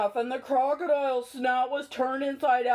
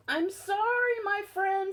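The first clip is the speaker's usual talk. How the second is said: sad; 4 semitones higher than usual. Acted. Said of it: "said the elephant sadly".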